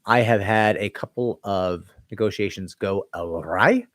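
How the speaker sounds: slow, put-on Scottish accent. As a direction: roll it out in a mock Scottish brogue. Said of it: "I'm going into Scottish accent".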